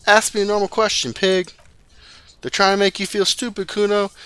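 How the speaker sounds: a sudden high yell at the cop. Acted. Kid losing his cool with the cop, yelling. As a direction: lose your cool and shout it. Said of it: "He loses his cool for a moment and starts yelling".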